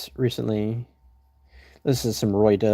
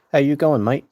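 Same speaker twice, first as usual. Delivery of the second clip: light mock Australian greeting; a quick Aussie "how you going, mate"; casual Australian accent hello; 3 semitones higher than usual. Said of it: "More Australian than anything right there".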